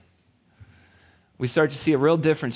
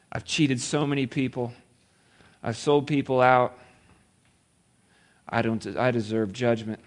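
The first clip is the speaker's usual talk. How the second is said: tearful confession; 5 semitones lower, 4 dB quieter than usual. Retold or imitated. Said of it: "maybe with tears in his eyes".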